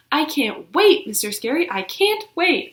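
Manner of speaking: bursting with excitement; excited girl squeals to her teacher; thrilled squeal. Acted. Junie B. flinging with excitement.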